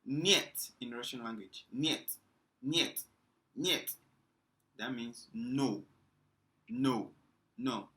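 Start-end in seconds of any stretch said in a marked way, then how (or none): 0.1-0.7 niet said as nyet, rising and louder; Russian pronunciation. Shown as a demonstration. Teacher showing students how to say niet, rising pron. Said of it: "when we say". 1.8-4.0 niet repeated as nyet, each one rising; Russian pronunciation. Shown as a demonstration. Teacher drilling niet for the class, rising pron. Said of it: "when we say".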